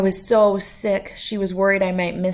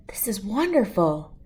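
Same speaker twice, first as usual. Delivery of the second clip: awed hushed whisper; 2 semitones higher than usual. Acted. Admirer quietly praises painting.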